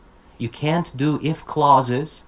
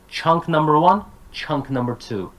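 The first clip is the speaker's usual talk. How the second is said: "Chunk number one" high and rising, "chunk number two" falling; up, then down; 3 semitones higher than usual. Shown as a demonstration. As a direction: lift "one", settle on "two". Teacher echoes the two chunks' tune.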